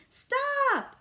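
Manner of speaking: high, loud shout. A narrator's reading. Peter shouting at Libby to stop, loud. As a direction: yell it to make her halt. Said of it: "I shouted".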